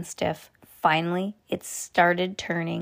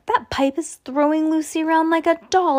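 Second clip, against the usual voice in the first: alarmed; 9 semitones higher than usual. A narrator's reading. Boy alarmed watching friend.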